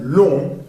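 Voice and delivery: "long" ending nasal, without a G; slow nasal model of "long"; nasal vowel. Shown as a demonstration. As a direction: send "long" through the nose. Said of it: "sonido nasal".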